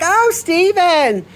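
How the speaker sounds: a lightly voiced elderly lady, slow and pleased; sweet old lady. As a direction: drawl out her name like a fond old lady. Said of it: "She's like".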